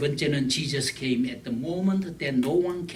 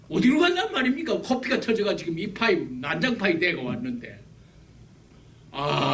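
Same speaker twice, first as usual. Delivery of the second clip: usual speaking voice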